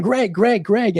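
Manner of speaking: imitated calling across a room; retold yelling. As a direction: call out a name repeatedly, half-heartedly. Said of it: "And we both were yelling".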